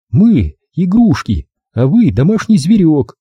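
high, deliberate scorn; high-pitched contempt; scornful captive woman. A narrator's reading.

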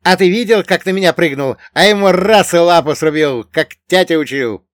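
high, loud boasting voice; excited eager companion. Acted. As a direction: tell of the fight in a high, excited rush of pride. Bogdan boasts of the fight.

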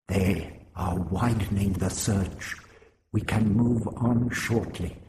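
calm stilted warning; lightly voiced stilted alien. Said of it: "the accent stilted".

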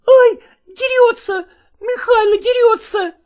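put-on shrieking boy. Boy shrieking as his stepfather comes at him. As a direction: squeal in panic like a frightened child. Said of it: "завизжал Васютка".

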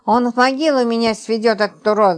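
usual speaking voice

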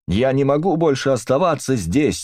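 high, strained cry to be let out; panicked high yell; desperate shout. A narrator's reading. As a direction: shout it like she's cracking under the walls. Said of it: "закричала Эдит".

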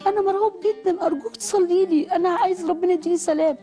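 put-on frightened child. Scared child begging the doctor for prayer, lightly imitated. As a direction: retell a scared little boy's plea. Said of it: "طفل صغير عنده تمن سنين".

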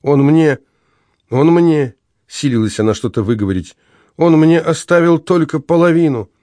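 a widow bursting into sobs; sobbing. A narrator's reading. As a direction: force the words out through tears. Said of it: "прорвались рыдания".

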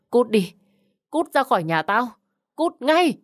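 mother screams her daughter out of the house, rising to a shriek; furious shout. Acted. Mẹ lại gào thét.

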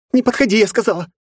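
very high, loud panicked scream; terrified shriek. A narrator's reading. Frightened girl screaming the demon away.

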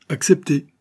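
high, emphatic exclamation; exclaimed acceptance. A narrator's reading. Barbicane accepts the proposal, exclaiming. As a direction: cry out agreement at once. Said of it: "s'écria Barbicane".

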